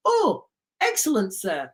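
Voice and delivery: mock-deferential welcome to a passenger; a hint of a fawning crew member; obliging ferry operator.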